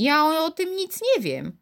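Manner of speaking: high, faltering, bewildered stammer; stammering in surprise. A narrator's reading. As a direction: stumble over the words, baffled. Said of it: "wyjąkała zdumiona".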